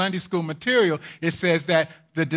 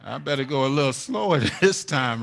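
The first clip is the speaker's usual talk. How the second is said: soft, quick muttering to oneself after a fall; hushed fast inner voice; cautious self-talk; 4 semitones lower, 5 dB quieter, faster than usual. Retold or imitated. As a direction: warn yourself under your breath, hurried. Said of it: "you just say".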